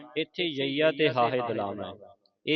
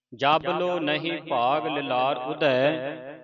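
slow, measured verse recitation; slow devotional reading; scripture recitation; slower than usual. Shown as a demonstration. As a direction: recite with long drawn-out vowels.

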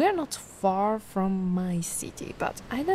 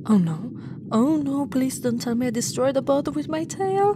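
rising panic, louder, blurting it out; panicked; 2 semitones higher, 3 dB louder than usual. Acted. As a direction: dread spilling into words. Fears she wrecked the boat.

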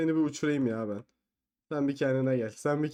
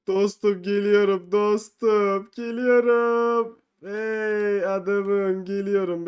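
teasing; 3 semitones higher, much slower than usual. Pretend. Creeping up to push someone.

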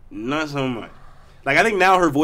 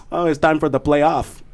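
Patrick Roy impression. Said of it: "I hear Patrick Roy".

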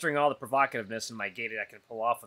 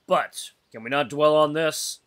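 quivering voice; 7 dB louder, slower than usual. Acted. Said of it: "he asks with a quivering voice".

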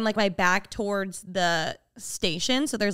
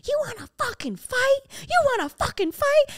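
very high, squeezed imitation of an angry yell; screechy mock threat, volume held back; mock screaming. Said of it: "I hear screaming".

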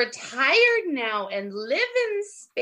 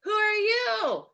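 mock Spanish accent; 8 semitones higher, slower than usual. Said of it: "with her little Spanish accent".

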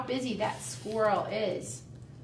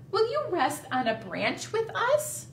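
a touch higher, birdlike; a light bird voice; 6 semitones higher than usual. Acted. Teacher voicing Bird inviting Squirrel, a bit high. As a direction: ask sweetly like a small bird. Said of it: "said Bird".

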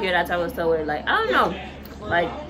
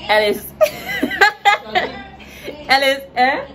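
Liberian accent; 13 semitones higher than usual. Shown as a demonstration. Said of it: "Liberian accent".

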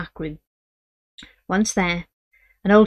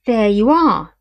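triumphant; 2 semitones higher, 7 dB louder, slower than usual. Acted. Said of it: "in a triumphant voice".

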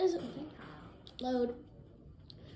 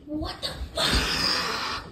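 laughing disbelief; 4 dB louder, much slower than usual. Real, not acted. Laughing at absurd play.

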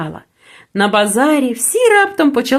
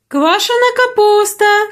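higher, drawn-out market cry on капуста; cabbage hawker calling; 7 semitones higher than usual. A narrator's reading. Sauerkraut seller cries wares across the market, high and drawn out. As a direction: sing out Квашена капуста to the crowd. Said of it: "гукали тут".

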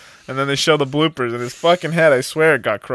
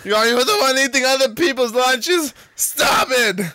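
scolding voice; 9 semitones higher than usual. Retold or imitated. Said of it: "it's like".

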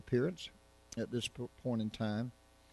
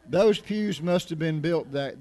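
talking through a laugh; 4 semitones higher, 6 dB louder, slower than usual. Real, not acted. Pastor recalling the old church pews, laughing. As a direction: start the line on a laugh, a little louder.

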